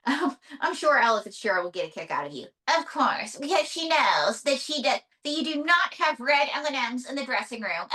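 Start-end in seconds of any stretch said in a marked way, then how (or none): 2.8-7.9 lightly voiced diva puppet; a touch of puppet diva, slightly raised; puppet diva May. Puppet May airs a dressing-room demand, lightly voiced diva.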